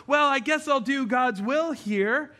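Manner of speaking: slow, grudging mock reluctance; reluctant sigh. Believer grudgingly agreeing to God's will, slow and reluctant. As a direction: drag it out like a chore. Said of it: "so we reluctantly go".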